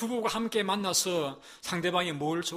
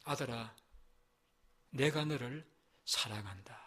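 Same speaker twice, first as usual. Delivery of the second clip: put-on soft, lower whispered assurance to his child; gentle voice of God; 6 semitones lower, 6 dB quieter than usual. God speaking softly to his suffering son and daughter, tender hushed voice. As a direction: hush it like a loving father comforting a child. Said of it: "이 말씀을만 하실 때도 있어요".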